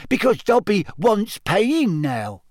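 slow, swooping elf squeak; earnest little creature voice; squeaky house elf. Acted. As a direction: stretch the words in a squeaky servant's lilt. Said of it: "Dobby squeaked".

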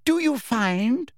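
high, very slow ringing question; condescending inspector's ringing voice. A narrator's reading. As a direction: draw it out as if to someone dim. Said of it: "in a ringing voice to Pansy".

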